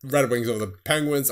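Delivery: rushed, breathless score list; hurrying through the results to keep up; talking fast. Real, not acted. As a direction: rattle the scores off quickly. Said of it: "I'm talking so fast right now".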